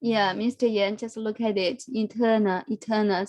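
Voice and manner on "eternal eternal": "Eternal, eternal" each stressed on "ter", e-TER-nal; stress on second syllable. Shown as a demonstration. Teacher showing Mister Yan "eternal", stress on "ter". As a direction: hit the middle syllable "ter" both times. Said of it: "So the stress is on the second syllable".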